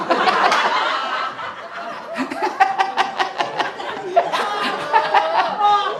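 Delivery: high breathy laughing fit after the punchline; long high laugh. Real, not acted. Preacher laughing at his joke to the mothers, laughing hard. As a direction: laugh freely at your own joke.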